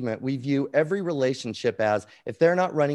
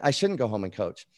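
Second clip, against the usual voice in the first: ordinary talk, nothing marked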